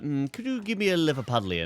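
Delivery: tag. Retold or imitated. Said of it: "they're like".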